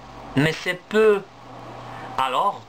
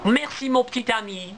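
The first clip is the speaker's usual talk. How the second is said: grateful mother squirrel; 7 semitones higher than usual. Acted. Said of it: "dit Sirlet".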